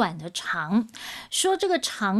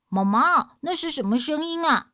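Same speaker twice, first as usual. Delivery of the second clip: put-on curious children; 6 semitones higher, 4 dB louder than usual. Boys ask mother at night.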